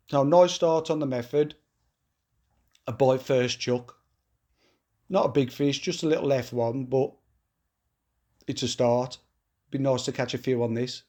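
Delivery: stuffy, bunged-up nose from a cold; blocked nose. Real, not acted. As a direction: talk through a blocked nose. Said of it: "I've got a bit of a cold and I'm a bit bunged up".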